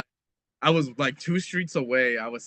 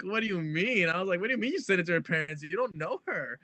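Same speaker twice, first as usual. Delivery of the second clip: incredulous protest; 5 semitones higher, 3 dB quieter than usual. Retold or imitated. Retold protest at photo being sent.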